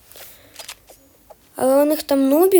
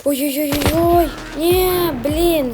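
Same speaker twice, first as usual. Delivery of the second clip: alarmed; 4 semitones higher, 5 dB louder, slower than usual. Real, not acted. Teammate dies, sudden enemy.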